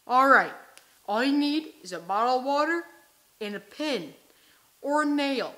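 shouted infomercial instructor; loud hammed-up pitch. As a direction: sell it loud like a cheesy coach.

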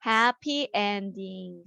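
slow, clear teacher model; slow model reading. Shown as a demonstration. Teacher modelling the phrase to students, slow. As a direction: draw each word out for the kids. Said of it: "행복한 결말".

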